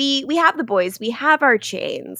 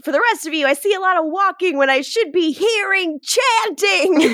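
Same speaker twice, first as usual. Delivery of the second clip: raised pitch climbing toward the end, little extra volume; hammed-up scolding that builds; mock yelling; 7 semitones higher than usual. Host as Marcos scolding the group, mock yell. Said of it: "this is where Marcos yells".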